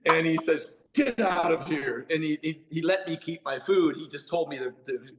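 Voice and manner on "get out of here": drawn-out, higher-pitched mock dismissal; slow, fed-up imitation; mock mad. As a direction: imitate an exasperated customs officer shooing someone off. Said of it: "he's all mad at me".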